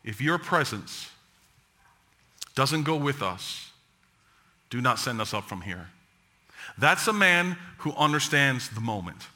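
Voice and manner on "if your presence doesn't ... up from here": low hushed. Retold or imitated. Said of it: "look what he says".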